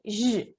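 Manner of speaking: "J" as a soft, held buzzing zh; Portuguese J sound. Shown as a demonstration. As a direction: hold the sound "J" alone, softly, like zh. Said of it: "pronunciada com esse som".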